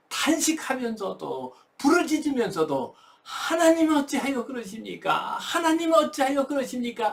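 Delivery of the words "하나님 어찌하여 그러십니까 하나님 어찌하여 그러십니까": anguished cry to God. Retold or imitated. Grieving believer calling on God, high anguished cry. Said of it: "하나님을 부르짖던".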